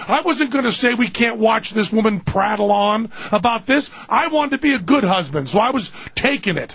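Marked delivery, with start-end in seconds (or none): 0.1-5.5 higher-pitched protest; insistent self-defence. Real, not acted. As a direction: plead your case over the teasing. Defends himself against co-host's teasing.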